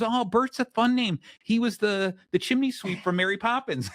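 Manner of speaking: imitating the wife. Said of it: "she goes".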